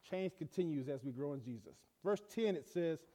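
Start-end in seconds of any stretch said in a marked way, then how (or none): 0.1-1.7 soft repetition. Shown as a demonstration. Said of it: "I'm gonna drop this on you".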